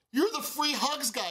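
high, slow, thrilled; excited recognition. Retold or imitated. Telling the stranger he's the Free Hugs guy, thrilled. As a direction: spell out who he is, delighted.

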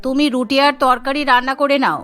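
stern mother-in-law. Acted.

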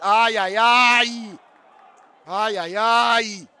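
loud, long-drawn "ai ai ai"; stretched, full-voiced fan cry; alarmed wail. Real, not acted. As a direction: wail out as danger unfolds. Alarm at match action.

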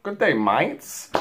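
slow, hammed-up Australian greeting; horrible Australian accent. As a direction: put on a bad Aussie accent. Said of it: "Australian accent right there".

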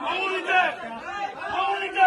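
high, repetitive confrontational shouts; real heated defiance; angry protest shouting. Real, not acted. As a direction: challenge them in short high bursts. Angry protest continues in crowd.

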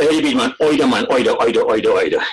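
broad Bajan "oy-ther" for either; Barbadian accent. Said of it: "A Barbadian passing".

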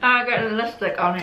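grimacing while speaking; through clenched teeth. Real, not acted. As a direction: teeth bared after biting. Seen 1: Bites just before; while speaking she grimaces with teeth clenched.

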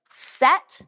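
sharp high command; commanding call. Shown as a demonstration. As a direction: call it out like an instructor. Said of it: "So when I say".

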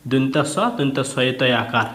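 name each letter of সস্তা, দন্ত স, দন্ত সয়ে তয় আকার; letter by letter, like a teacher; spelling aloud. Shown as a demonstration. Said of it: "এটাকে ভেঙে ভেঙে দিয়েছে দেখো". (বর্ণ ধরে ধরে বানান)

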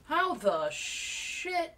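slow, loud, stunned disbelief; baffled outburst. Real, not acted. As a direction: stretch out the shock. Sudden shock in game.

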